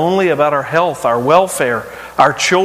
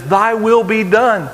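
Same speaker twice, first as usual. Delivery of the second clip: submissive prayer; 5 semitones higher, slower than usual. Shown as a demonstration. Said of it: "a faith that looks to Jesus and says".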